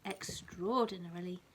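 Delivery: lively bedtime story reading, rising on the key words; reading to a child. A narrator's reading. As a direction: read it like a picture book to a toddler.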